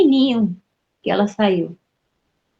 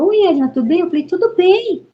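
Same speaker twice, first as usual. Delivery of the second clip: high-pitched re-enacted hello; retold cheery greeting; 10 semitones higher, 3 dB louder than usual. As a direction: act out greeting an in-law, pitched well up. Acted greeting between in-laws.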